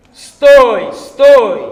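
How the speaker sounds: bellowed command to halt; a huge shout of stop; loud halt cry. Acted. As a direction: roar it across the forest. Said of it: "rozległo się".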